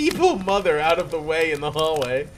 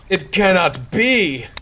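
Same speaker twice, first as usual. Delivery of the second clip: horrified denial; 5 semitones higher, 6 dB louder, slower than usual. Acted. Horrified realization.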